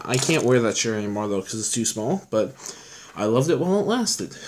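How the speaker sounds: talking while out of breath; winded, short on air. Real, not acted. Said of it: "Sorry, I'm out of breath".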